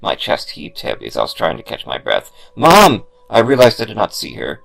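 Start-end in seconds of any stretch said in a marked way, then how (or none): 2.6-3.1 loud, high call for mom. Acted. Boy calls out for his missing mother. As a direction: cry out for her.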